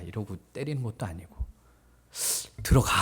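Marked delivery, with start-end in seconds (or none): 2.6-2.9 mock stern command; curt order. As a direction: order him inside abruptly, as a harsh father would. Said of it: "이게 아니에요". (단호하게 명령하듯)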